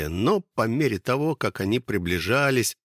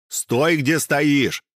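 sharp command; 5 semitones higher, 5 dB louder, much slower than usual. Acted. Yurasik aims at the hero.

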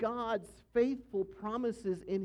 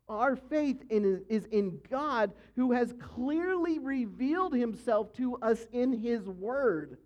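ordinary delivery

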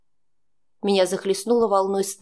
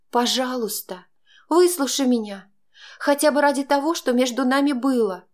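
pleading; 5 semitones higher than usual. Acted. Heroine begs her lover.

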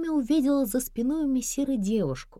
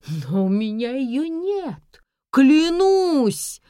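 slow, then a loud high cry of клянусь; loud pleading; 3 semitones higher, 6 dB louder, much slower than usual. A narrator's reading. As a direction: swear it desperately. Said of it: "громко повторила Инесс". (громко, с мольбой)

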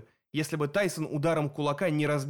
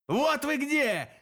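very high, drawn-out squeal; squealing cyclops; 11 semitones higher, much slower than usual. A narrator's reading. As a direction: squeal it out slowly as a monster spotting prey. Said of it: "завизжал Полифем".

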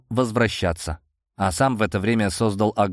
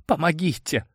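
trembling whisper; 6 semitones higher than usual. A narrator's reading. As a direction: whisper it in fear. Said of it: "прошептала дрожащим голосом девушка".

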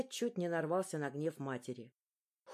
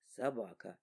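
1 low father; 9 semitones lower, 5 dB quieter than usual. A narrator's reading.

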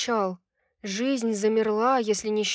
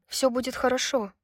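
calm reassurance; 3 semitones higher than usual. Acted. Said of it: "но голос звучал спокойно".

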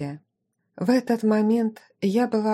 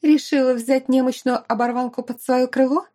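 venomous; 5 semitones higher than usual. Acted. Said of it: "ядовито выплюнула".

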